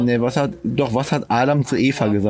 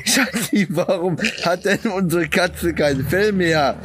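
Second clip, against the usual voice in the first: astonished husband, pitched up; mildly hammed-up puzzled question to the wife; völlig erstaunt; 4 semitones higher than usual. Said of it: "fragt seine Frau völlig erstaunt". (erstaunt fragender Ehemann)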